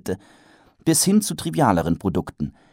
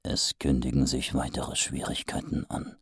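thought; 8 semitones lower, 9 dB quieter than usual. Acted. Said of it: "dachte er".

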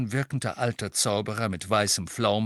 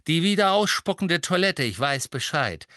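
eager interruption; 6 semitones higher, 4 dB louder than usual. A narrator's reading. Hurried father figure interrupts.

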